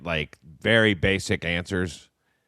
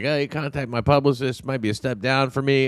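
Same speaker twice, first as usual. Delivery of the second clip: big-timing; 5 semitones higher than usual. Retold or imitated. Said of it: "big timing him".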